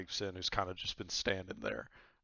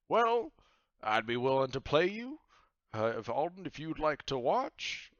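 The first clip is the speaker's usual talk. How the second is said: high, loud jovial pirate captain; 7 semitones higher, 7 dB louder than usual. Acted. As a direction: boom it out like a cheery pirate host. After hearty chuckle.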